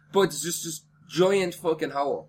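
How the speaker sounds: speech slurred by numbness; numb mouth. Real, not acted. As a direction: talk through a numb mouth. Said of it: "So I'm talking weird".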